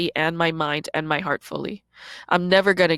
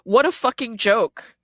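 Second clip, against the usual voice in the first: mocking scorn; 2 semitones higher than usual. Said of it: "They were like".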